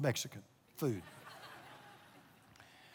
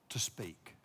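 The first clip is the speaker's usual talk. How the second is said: hushed; 7 semitones lower, 9 dB quieter than usual. Shown as a demonstration. God's voice, hushed drop.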